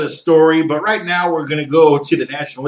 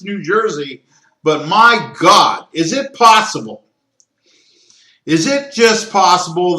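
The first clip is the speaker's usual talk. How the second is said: worked-up, loud, higher-pitched complaining; venting at the network, getting louder; emotional rant; 4 semitones higher, 3 dB louder than usual. Real, not acted. Podcast host ranting to listeners about NFL blackouts, heated and loud. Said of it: "did I get a little emotional there?".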